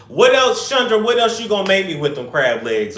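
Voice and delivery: loud, high call across the house. Real, not acted. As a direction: shout the question to the kitchen. Calling to Chandra in kitchen.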